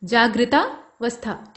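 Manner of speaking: जागृतावस्था said slowly, each syllable drawn out; जागृतावस्था stretched out for students; slow spelled-out word. Shown as a demonstration. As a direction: spell it out by ear, unhurried. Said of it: "ऐसे".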